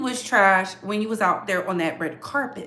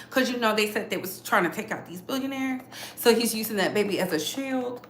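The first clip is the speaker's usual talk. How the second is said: ordinary talk, nothing marked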